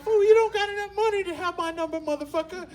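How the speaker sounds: high, dismissive put-down; cocky passenger. Retold or imitated. The dealer refusing his number, high and dismissive. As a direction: brush him off from above. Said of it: "He's like".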